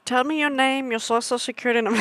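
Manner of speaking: a hint of a mystic reader; lightly voiced tarot reader teasing viewers; mock fortune teller. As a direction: ask it like a playful psychic. Mock tarot reader, then just kidding.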